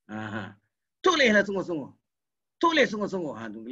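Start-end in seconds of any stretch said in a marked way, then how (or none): 1.0-3.3 "Tulislah" hit firmly at the start; emphatic intonation. Shown as a demonstration. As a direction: command it, leaning on "Tulislah". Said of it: "kita pakai intonasi je lah". (intonasi tegas pada "Tulislah")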